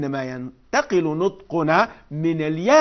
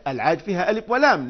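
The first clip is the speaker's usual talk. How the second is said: ordinary talk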